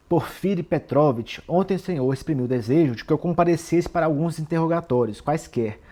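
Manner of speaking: mildly defiant retold challenge; confrontational. Raskolnikov confronting Porfírio over the requested interrogation, mildly defiant. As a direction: address him formally and firmly, as if confronting him. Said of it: "olha só como ele vai afrontando".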